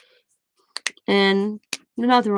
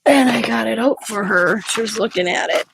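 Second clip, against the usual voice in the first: real tears come through; breaking into tears over the book; crying; 3 semitones higher, 5 dB louder than usual. Real, not acted. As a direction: voice breaking, louder, on the edge of tears. Showing her late mom's obituary.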